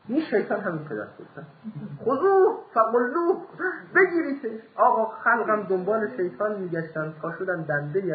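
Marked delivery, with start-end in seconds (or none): 2.0-4.6 louder and higher, slow commanding cry; hammed-up shout, seize him; mock call to seize. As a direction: rouse the crowd to grab him. Crowd urged to seize the devil.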